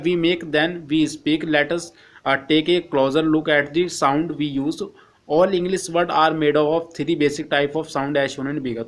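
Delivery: slow, careful reading of the English text; slow textbook reading. Acted. Teacher reading the textbook to Hindi-speaking students, slow and careful. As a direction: read each English phrase slowly for the class.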